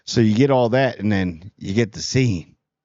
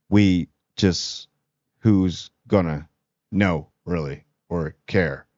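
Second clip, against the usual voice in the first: hesitant king; 5 semitones lower, slower than usual. Retold or imitated. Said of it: "Aegon's sitting there like".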